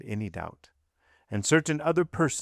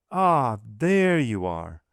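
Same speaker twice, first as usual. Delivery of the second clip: natural and calm; 4 dB louder, slower than usual. A narrator's reading. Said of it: "her voice natural and calm".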